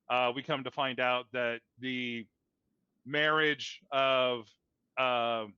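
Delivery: talking with food in mouth; mouth full. Real, not acted. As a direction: speak around a mouthful. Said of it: "sorry, I've got something in my mouth".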